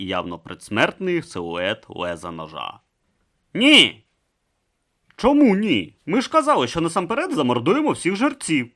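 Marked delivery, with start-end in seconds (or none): 3.5-4.0 high, loud "No!"; urgent high shout of protest; sharp cry. Acted. Captive cries out to stop. 5.2-8.7 higher, louder rebel arguing back; rough rebel. Acted. Thug argues with Urn.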